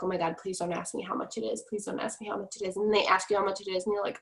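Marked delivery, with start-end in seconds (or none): 0.0-2.8 low, softened nervous plea; kinda nervous. Acted. Seller dreading a prospect's price question, mildly nervous. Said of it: "you're, like, kinda nervous".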